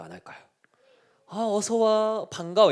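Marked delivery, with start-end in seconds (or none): 1.3-2.7 soft, higher-pitched friendly greeting; a gently acted kind welcome. God kindly greeting Satan, in a friendly welcome. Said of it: "친절하게 할까요".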